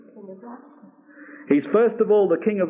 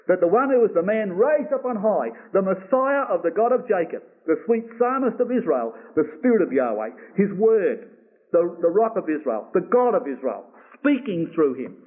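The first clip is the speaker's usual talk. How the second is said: each title set apart and stressed, from "Messiah" to "Rock of Israel"; emphatic listing. Shown as a demonstration. Preacher goes over the words of emphasis, each title stressed separately. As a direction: build the list title by title, stressing "word" and "Rock". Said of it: "look at the emphasis on those words".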